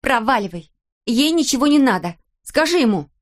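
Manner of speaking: put-on a girl yelling at her mother, near shout. A narrator's reading. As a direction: drive him out, almost screaming. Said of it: "Кристел почти кричала на мать".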